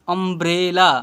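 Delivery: अम्ब्रेला loud, opening on a; u read as a. Shown as a demonstration. Teacher reads the spelled word to pupils, a sound. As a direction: sound out अम्ब्रेला firmly, first vowel a. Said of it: "यू को अ से पढ़ते हैं".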